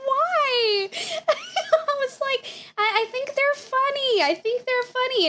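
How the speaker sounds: high, cracking laugh-talk; half laughing, half pleading; laughing through the words. Retold or imitated. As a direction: giggle out the protest in disbelief. Retells her laughing, baffled reply.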